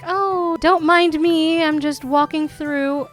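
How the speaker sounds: voicing Gnome. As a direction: play a gnome pretending he isn't there. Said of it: "Gnome's just walking right by like".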